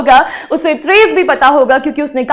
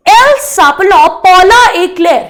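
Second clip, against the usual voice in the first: slow model sentence; 4 dB louder, much slower than usual. Shown as a demonstration. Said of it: "teacher models French sentence".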